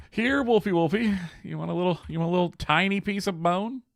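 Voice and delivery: put-on high, sing-song baby talk to an animal; coaxing pet talk. Player luring a wolf with bone, high coaxing pet talk. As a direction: coo high at a little pet.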